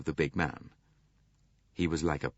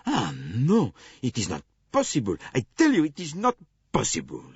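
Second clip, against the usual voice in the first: higher, louder exasperated protest; exasperated cry; 6 semitones higher, 5 dB louder than usual. A narrator's reading. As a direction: throw up your hands in protest. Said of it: "cried Monsieur Bouc".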